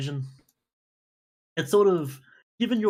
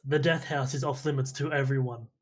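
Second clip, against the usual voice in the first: calm. Acted. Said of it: "calmly states".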